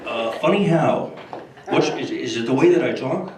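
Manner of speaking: lightly voiced Carson doing the funny how bit; Johnny Carson as Joe Pesci. Carson confronts Bush, mild mock menace. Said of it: "George Bush and Johnny Carson".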